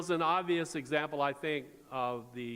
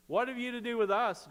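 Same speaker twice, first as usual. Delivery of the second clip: higher mock yell at the start, then settling; hammed-up challenge from the possessed man; demon's scream; 8 semitones higher, 3 dB louder than usual. Preacher voicing the demon defying Jesus, higher mock yell. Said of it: "he screams at him and he says".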